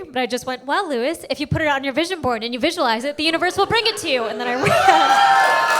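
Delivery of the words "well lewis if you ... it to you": mock-reasonable retort, rising and quickening at the end; petty parroting, building to the punchline; petty comeback. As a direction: throw his own words back at him. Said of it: "I know this is very petty".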